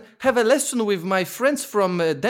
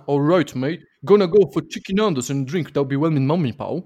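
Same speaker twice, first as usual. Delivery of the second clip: unconvincing Mancunian, dropping low at the end; attempted Manchester accent; 5 semitones lower than usual. Contestant re-performs to prove his point, attempted Mancunian. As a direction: repeat a badly faked Manchester line. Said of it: "It doesn't sound like Manchester".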